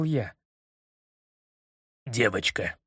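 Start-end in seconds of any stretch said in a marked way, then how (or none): 2.0-2.8 embarrassed. A narrator's reading. The general embarrassed at the microscope slide. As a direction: say it sheepishly, eyes down. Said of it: "смущённо глядя на предметное стёклышко".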